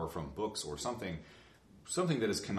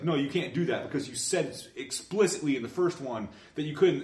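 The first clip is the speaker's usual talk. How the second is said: louder, higher voice that protests the broken rule; mock objection; 5 semitones higher, 6 dB louder than usual. Imagined objector scolding the writers who break their rules. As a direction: play the exasperated voice of reason.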